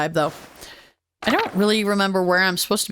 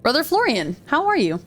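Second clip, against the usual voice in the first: higher, polite greeting; lightly voiced Andreas; 6 semitones higher than usual. Andreas greets Brother Florian, higher polite voice. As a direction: pitch up lightly for a courteous hello.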